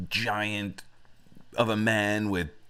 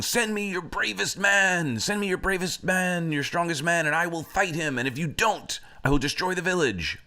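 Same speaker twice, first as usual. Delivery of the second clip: high-pitched hammed-up giant challenge; mock giant yell, raised and insistent; screaming giant; 9 semitones higher than usual. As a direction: holler a repeated threat at the village. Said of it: "the giant starts screaming".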